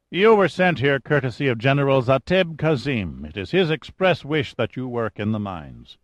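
calm, self-assured commander introducing himself; lightly voiced cool chief engineer. O'Banion voiced by narrator.

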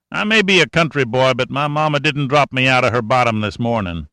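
a hint of a wry country boy; country mechanic. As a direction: talk like a sly old country mechanic. Cashman voice held.

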